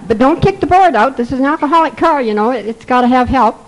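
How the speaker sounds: half-joking caution about the board; mock warning.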